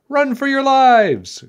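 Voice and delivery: high, drawn-out warning shout; crying out in alarm. A narrator's reading. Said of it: "cried the people of Pewee".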